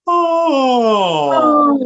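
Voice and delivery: high, loud yawned oh sliding down; big yawn glide. Shown as a demonstration. Teacher showing a big loud yawn glide. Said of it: "Como si fuera bostezo".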